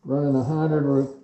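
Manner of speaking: talking through a face mask; muffled behind mask and face shield. Real, not acted. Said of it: "If I sound muffled ... because I'm wearing this mask".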